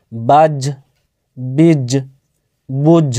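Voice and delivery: বাজ, বীজ, বুঝ with the final জ released in a short bouncing echo; qalqalah bounce. Shown as a demonstration. Teacher shows qalqalah on জ to students, bounced release. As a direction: let the জ of বাজ spring back like a tajweed reciter. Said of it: "জিম হচ্ছে হুরফে কলকলার".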